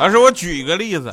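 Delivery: high, loud, eager schoolkid voice piping up.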